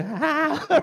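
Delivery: high, soft mock yelp of disgust; grossed-out cry. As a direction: let out a squirming little ah. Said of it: "feeling really gross".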